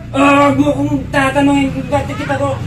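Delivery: loud, furious demand; angry shouting. Acted. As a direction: yell it at your partner. Couple quarrel, shouting.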